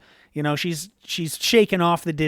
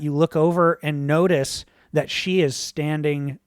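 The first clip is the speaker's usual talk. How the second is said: ordinary delivery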